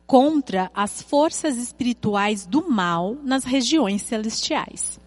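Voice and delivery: measured, emphatic Bible reading with stretched key words; solemn read-aloud with weighty pauses; scripture reading. Acted. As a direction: read the verses out deliberately to a congregation. Reads Bible passage aloud.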